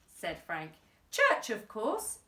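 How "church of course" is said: higher, louder and slow; exclaiming. A narrator's reading. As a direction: announce it like it's obvious. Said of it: "exclaimed Flip".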